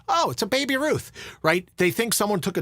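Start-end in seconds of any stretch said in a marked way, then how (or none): 0.1-1.1 a higher, lightly voiced goofy groundskeeper; a hint of a movie slacker's dry quip; Bill Murray in Caddyshack. Joking about the pool scare, a lightly voiced movie groundskeeper. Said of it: "Channeling your best Bill Murray from Caddyshack".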